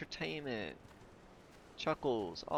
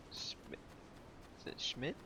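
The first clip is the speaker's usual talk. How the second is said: whispered guess; 13 dB quieter than usual. Real, not acted. Unsure how to pronounce a name.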